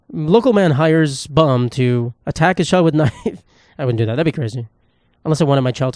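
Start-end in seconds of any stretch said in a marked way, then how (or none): 0.1-3.4 mock news headline. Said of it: "I'm gonna be on the news when I'm a father".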